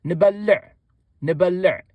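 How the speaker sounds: teacher demo of نبلع; Tigrinya word said clearly. Shown as a demonstration. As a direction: model the Tigrinya نبلع for learners. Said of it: "it is only necessary to say".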